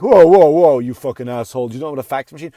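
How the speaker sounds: loud whoa then a mock-offended rant. Comic acting offended at millennial crowd, hammed-up outrage. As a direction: play the wounded old comic, hammed-up. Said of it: "act all offended".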